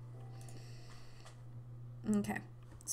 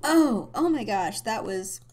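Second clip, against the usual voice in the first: laughing exclaim; 9 dB louder than usual. Real, not acted. Reacts to funny moment.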